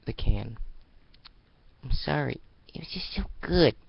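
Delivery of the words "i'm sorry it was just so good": sheepish apology. Acted.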